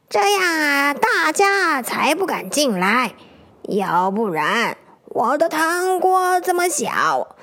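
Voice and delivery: slow amused grandma voice with a laugh; a hint of a cheeky grandma lizard; chuckling old granny. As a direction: let him in on her trick. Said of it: "蜥蜴婆婆笑着说".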